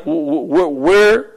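feigned puzzled stutter; baffled stammer. Acted. Pastor acting out a reply to complaining singles, baffled stammer. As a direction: stammer on the first word in mock bewilderment.

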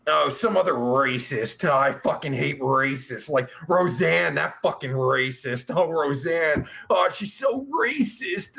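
mock outrage, laying it on thick; sarcastic. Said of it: "That's called sarcasm".

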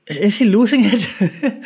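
mock dramatic. Mock-dramatic rhetorical question.

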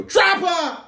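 very high silly cry; high-pitched mock exclamation; catchphrase outburst. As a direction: burst out with it out of nowhere. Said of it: "And you go".

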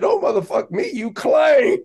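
high mock yell at a rival shooter; retold yell. Coach yelling back at Reggie Miller, high mock yell. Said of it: "Yelling at him".

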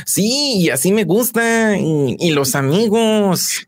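put-on high-pitched northern Mexican accent; playful put-on norteño accent from northern Mexico. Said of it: "Te sale muy bien el acento norteño".

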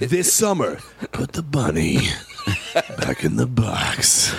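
deep dramatic trailer read; movie trailer voice. Shown as a demonstration. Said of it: "Great movie trailer voice".

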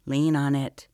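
high, loud urgent command. Acted. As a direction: bark the order at her. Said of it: "commanded Princess Araya".

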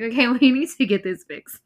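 laughing through a mock urgent line; half laughing, half urgent; laughing quote. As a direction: giggle while playing the wife. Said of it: "she's like".

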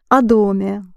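о доме run together as "a-DOM-ye"; unaccented O. Shown as a demonstration. Teacher shows sentence pronunciation, о доме with unaccented "a". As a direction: reduce о in о доме to a light "a". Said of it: "if you pronounce it in a sentence".

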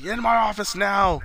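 high mock office summons; lightly acted boss's command; imitating stern boss. Boss orders employee into office.

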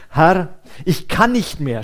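"kann" punched and falling, a worn-out groan; a loud weary moan of giving up; groaning despair. A narrator's reading. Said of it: "stöhnte er".

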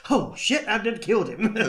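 high, hammed-up realisation; panicked nanny. Nanny after trying to kill him, mock dismay. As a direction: exclaim it high, then settle. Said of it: "try to kill Pierce Brosnan".

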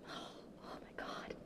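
breaking off, overwhelmed by tears; a tearful sigh and a whispered oh my God; choked up. Real, not acted. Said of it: "you guys can most definitely hear it in my voice".

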